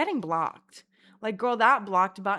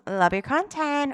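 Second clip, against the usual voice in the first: louder, higher, quick mock gushing; gushing fan imitation; 6 semitones higher, 8 dB louder than usual. Contrasting how the girl didn't say it, gushing. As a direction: chirp it like an eager fan. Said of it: "She wasn't on some".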